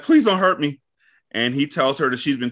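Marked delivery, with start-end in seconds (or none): 0.0-0.8 mock pleading. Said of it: "And she's like".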